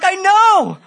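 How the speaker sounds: high, loud laughing delivery; laughing with joy. Retold or imitated. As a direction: laugh through the words. Laughing through joyful retelling.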